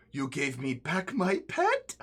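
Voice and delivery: lightly voiced grateful spirit; spirit of Lakuku.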